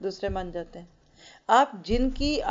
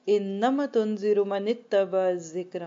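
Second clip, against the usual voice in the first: slow, drawn-out chanted recitation of the verse; Quranic recitation; much slower than usual. Acted. Teacher recites the verse to her class, slow chanted recitation. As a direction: intone the Arabic verse slowly and reverently.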